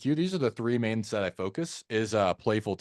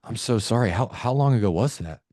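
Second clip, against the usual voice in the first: dropped, sincere sympathy; concerned tone. Shown as a demonstration. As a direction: offer gentle condolence, then check on them. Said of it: "go into a concern tone".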